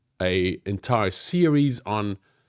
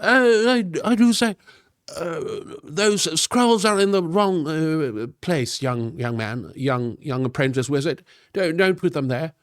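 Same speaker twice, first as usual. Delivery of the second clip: high, slowed pompous wizard voice, nose in the air; snooty old wizard; 5 semitones higher than usual. Acted. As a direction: scold the apprentice like a fussy old wizard. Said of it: "but if I lead with the nose".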